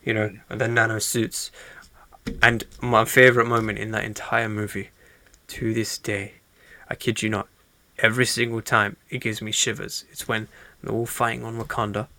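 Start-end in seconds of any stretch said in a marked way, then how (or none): 2.4-12.1 soft, nearly whispered build-up; hushed storytelling. Retold or imitated. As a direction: draw them in with a hushed voice.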